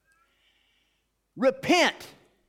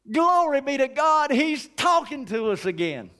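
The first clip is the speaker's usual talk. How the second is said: joyful exclamation; 4 semitones higher than usual. Acted. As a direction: burst out in praise. Exclaiming praise.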